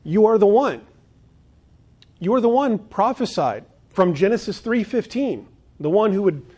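preacher voicing Peter's bold confession; fervent declaration. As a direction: proclaim it with rising fervor. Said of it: "And so Peter is saying".

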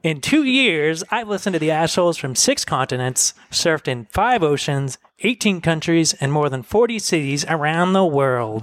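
lightly imitated friend's update; Michelle Stiles. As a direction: read out a friend's travel boast with a touch of impersonation. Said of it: "I'll do my best Michelle impersonation".

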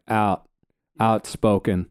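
"outspoken" in an American accent, "out" like "owt" and a falling finish. Shown as a demonstration. Explaining Canadian versus American accents, giving the American "outspoken". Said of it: "an American accent would be like".

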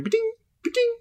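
light ba-ding sound effect; imitated ring chime. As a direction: imitate rings ticking away. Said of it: "pretty sure going".

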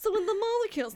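high fake lecture through laughter; laughing mock scientist.

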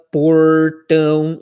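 portão said slowly with a strong Brazilian door-style R; slow teaching demo of portão with a heavy Brazilian R. Shown as a demonstration. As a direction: draw out portão, leaning hard on the R. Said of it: "fazer aquele R bem de porta".

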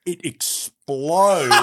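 long drawn-out, loud, laughing punchline; story climax. Retold or imitated. Distiller telling friends about the coffee bottle, dramatically drawn out. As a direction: stretch it out big and loud, amused.

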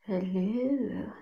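hushed whisper; quiet at night. Real, not acted. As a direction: whisper so the parents stay asleep. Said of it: "my parents are sleeping".

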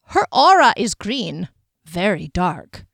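eerie fortune teller, drawn out; diviner voice. Acted. Diviner reading aura.

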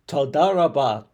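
loud, slow, smiling toda rabah; beaming thank-you, loud and slow; grateful thanks. Retold or imitated. Woman thanking the stranger who corrected her, loud smiling thanks. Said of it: "she had this huge smile on her face".

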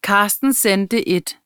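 slow, deliberate teacher dictating; dictation voice. Pretend. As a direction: read it out word by word like a dictation. Mock dictation for a school test. (langsom diktatstemme)

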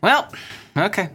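imitating stoic resignation, high "well" settling into "okay"; reserved acceptance. Mimicking Bruce Wayne's response to everything he encounters, reserved acceptance. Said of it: "like a reserved acceptedness to every single thing".

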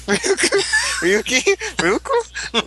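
put-on playful Russian accent, high. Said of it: "my Russian accent came out".

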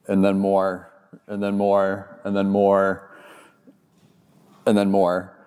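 deadpan list that never changes; monotonous repetition. Retold or imitated. Endless canola fields, repeated deadpan.

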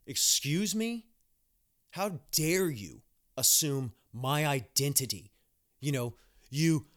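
hammed-up offended diva, slow and loud on "Excuse me?"; overacting a snooty indignant tirade; mock outrage. Nurse imagines telling off a patient, in a mock outraged voice. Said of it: "should have literally have went off".

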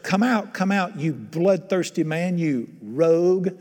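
slow, emphatic curse read aloud; understated angry accusation, drawn out; cursing. Acted. Preacher voicing Shimei cursing the king, measured anger. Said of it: "said thus when he cursed".

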